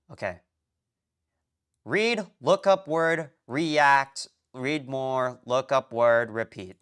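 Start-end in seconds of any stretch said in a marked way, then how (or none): 1.8-6.8 each step punched loud, starting high and stepping down; emphatic step-by-step recital. Real, not acted. Streamer spells out the repetitive study process, punched step by step. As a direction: hammer out the steps of the loop, pitch sinking to usual by the end. Chanting the steps of a loop.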